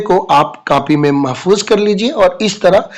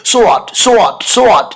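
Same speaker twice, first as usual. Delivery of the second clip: drilled phrase; 4 semitones higher, much slower than usual. Shown as a demonstration. Teacher drills the phrase for students to repeat. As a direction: fire it off several times. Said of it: "सौ बार बोलो".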